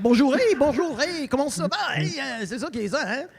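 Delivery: attempted French. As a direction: bluster through French greetings. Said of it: "I'm like".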